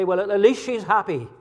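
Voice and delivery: a hint of a parent making excuses; excusing parent. Preacher imitating parents making excuses for a child, lightly voiced. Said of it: "thing that parents sometimes say".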